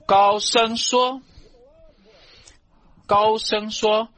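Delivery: high, slow proclamation from scripture. Acted. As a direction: draw it out high, like crying out to a crowd.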